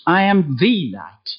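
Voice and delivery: "the" said "thee", set apart before "light"; stress on THE. Shown as a demonstration. Telling the congregation, stress on the. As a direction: hit "the" as "thee". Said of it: "Not "I am a light".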